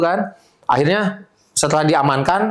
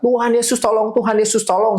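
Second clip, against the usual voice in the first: retold desperate cry; 8 semitones higher than usual. Recalling his repeated cries to Jesus in the truck, high mock pleading. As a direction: echo the desperate prayer in a high, restrained voice. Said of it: "saya teriak".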